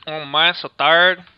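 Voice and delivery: lazy, slow Mexican accent; Mexican accent impression. Shown as a demonstration. Friend doing his Mexican impression on request, slow tired accent. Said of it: "do your Mexican impression".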